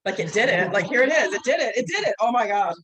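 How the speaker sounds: building thrill of being captured by the tree; realizing the flower caught her; excited realization. Retold or imitated. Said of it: "I'm like".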